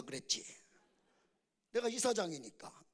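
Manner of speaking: ordinary talk, nothing marked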